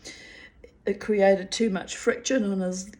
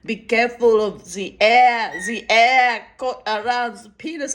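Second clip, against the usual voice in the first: put-on French accent; 2 semitones higher, 6 dB louder than usual. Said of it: "in a very French accent".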